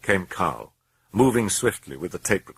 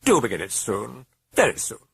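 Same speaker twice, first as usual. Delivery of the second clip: sardonic demon; 5 semitones higher than usual. Acted. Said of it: "The sardonic eyes were staring piercingly".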